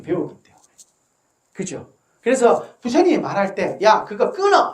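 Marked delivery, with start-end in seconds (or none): 3.8-4.7 curt rude order. Retold or imitated. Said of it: "이렇게 말 안 합니다".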